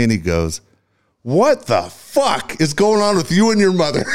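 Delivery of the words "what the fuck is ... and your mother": high, drawn-out outraged yell; retold yell. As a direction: imitate the coach yelling in disbelief. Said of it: "he yells at me".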